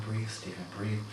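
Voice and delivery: soft, gentle coaxing. Retold or imitated. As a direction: coax him to breathe softly. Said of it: "inviting Stephen to breathe".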